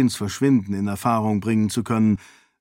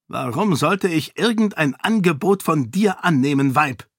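higher, curt and scornful; the king snaps at her; snapping king; 6 semitones higher than usual. Acted. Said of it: "fuhr er sie an". (anfahrend, barsch)

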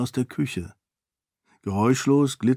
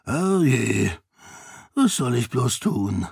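lightly voiced hearty nobleman in mock dismay; jovial lord; slower than usual. A narrator's reading. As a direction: play Ahan's fake helplessness. Ahan mock helpless.

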